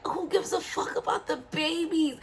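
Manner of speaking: frustrated outburst. Retold or imitated. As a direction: blurt it out, completely fed up. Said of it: "And I got so frustrated".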